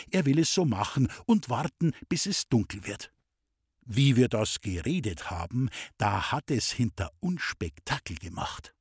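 plain reading voice

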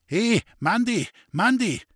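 high, loud call into the dark evening. Acted. Father shouting out into the dark evening for the herd boy. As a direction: shout the name out into the night. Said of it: "Da schrie der Waldhofer".

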